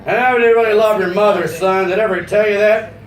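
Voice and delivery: lightly voiced gushing tipsy father; a hint of boozy sentimentality; tipsy confessing dad. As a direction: confess love with a few drinks in you. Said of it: "That's about three or four gin and tonics".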